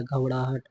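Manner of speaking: घबराहट, curled-tongue ṛaa in the middle; correct form घबड़ाहट. Shown as a demonstration. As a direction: say घबराहट with a flapped ṛ for the r. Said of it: "होता है". (घबराहट को 'घबड़ाहट' बोलकर)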